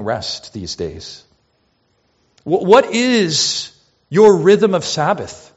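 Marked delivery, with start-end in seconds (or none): 2.4-5.5 slow urgent question. Acted. Pleading question to church.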